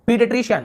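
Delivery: पीडियाट्रिशियन high, opening on "pee"; long E demo. Shown as a demonstration. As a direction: model पीडियाट्रिशियन with a clear "ee". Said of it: "यहाँ पर भी ई ऐसे हो रहा है".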